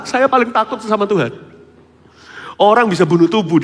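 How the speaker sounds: loud, high preaching voice; fiery preaching. Real, not acted. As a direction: preach it out with full force. Preaching at full force. (khotbah berapi-api dengan suara keras)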